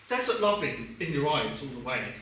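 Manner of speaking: low, measured recital of song lyrics; solemn letter reading. Acted. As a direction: read it out gravely as a heartfelt letter.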